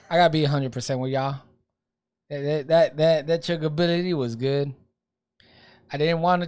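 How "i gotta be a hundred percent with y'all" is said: light, quick Texan accent. Shown as a demonstration. To the listeners, lightly putting on a Texan accent. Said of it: "I'ma start talking like a Texan".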